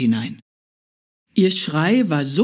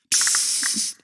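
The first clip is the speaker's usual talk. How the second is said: quick unvoiced psst; hurried hush; 5 dB quieter than usual. Beetle hushes the hare, a quick whisper. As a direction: hush and scurry away. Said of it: "huschelte der".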